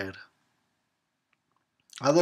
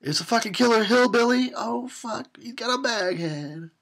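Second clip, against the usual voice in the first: high, loud excited cry; genuinely excited exclamation; excited exclaim; 11 semitones higher, 4 dB louder than usual. Real, not acted. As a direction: shout it out thrilled.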